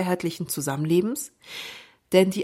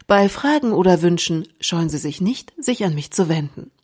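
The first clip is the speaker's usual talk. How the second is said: flight attendant; 5 dB louder than usual. Pretend. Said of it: "bei meiner Begrüßung".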